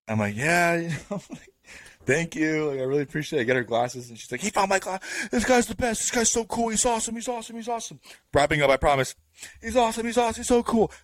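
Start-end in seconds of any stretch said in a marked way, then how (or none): 0.4-3.4 awkward high reply. Retold or imitated. 4.4-10.9 put-on high, gushing drunk praise; drunk woman gushing. Drunk neighbour gushing about her helper, high and squealing. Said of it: "Getting louder, louder, louder".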